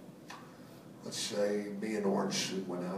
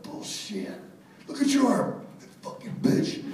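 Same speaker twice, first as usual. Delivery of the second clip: higher, much louder furious shout; angry yell; 14 semitones higher, 5 dB louder than usual. Retold or imitated. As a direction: yell at her in outrage over the cut. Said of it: "I'm like".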